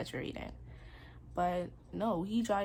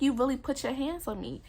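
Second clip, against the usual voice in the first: higher, indignant retold accusation; mad; 5 semitones higher than usual. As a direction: confront him, voice raised in replayed anger. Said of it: "I was still mad about that".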